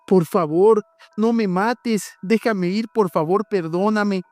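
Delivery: high, trembling begging for his life; tearful pleading. Acted. José begs the wolf to spare him, high tearful plea. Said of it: "le supliqué llorando".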